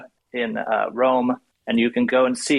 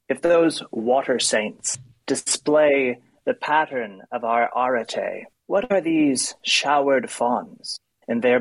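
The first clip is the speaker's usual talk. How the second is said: measured, deliberate poem recital; poetry reading; slower than usual. Acted. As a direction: read the poem with care, savouring each line. Reads the poem aloud.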